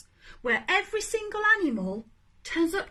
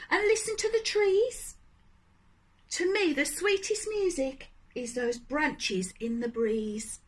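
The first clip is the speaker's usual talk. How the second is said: gentle cricket. Acted. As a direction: soothe Gerald kindly. Cricket's gentle song-like advice.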